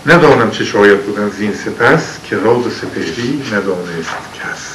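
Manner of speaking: slow, solemn epic verse reading; poem recitation. Acted. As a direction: recite it like old epic poetry. (خوانش حماسی شعر)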